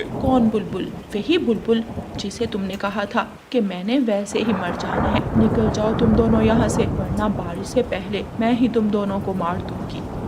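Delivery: angry bulbul. Acted. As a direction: drive them away, getting fiercer. Bulbul angrily refuses crows. (गुस्से में भगाती बुलबुल)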